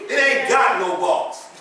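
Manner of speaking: slow Compton vernacular, leaning on ain't. Shown as a demonstration. Preacher repeats the verse Compton style, slow and deliberate. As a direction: lean into the Compton phrasing. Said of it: "the way we say it in Compton".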